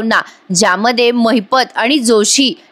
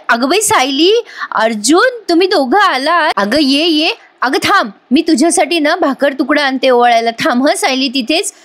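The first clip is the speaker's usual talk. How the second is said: higher, bright excited greeting; overjoyed welcome; 5 semitones higher than usual. Retold or imitated. Kusum excitedly welcomes Sayli and Arjun home, overjoyed. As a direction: greet them with real delight. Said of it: "Kusum खूप खुश होते".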